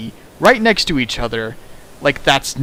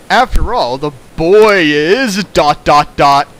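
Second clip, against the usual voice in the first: mock dramatic reveal; 7 dB louder than usual. Hamming the cliche reveal.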